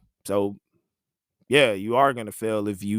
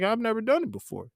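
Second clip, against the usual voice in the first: panicked protest; 11 semitones higher than usual. Retold or imitated. Intern protesting to SID.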